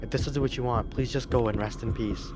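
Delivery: put-on high, shaken girl pleading; frightened girl voice. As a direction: answer the ghost in fear. Girl answers the ghost.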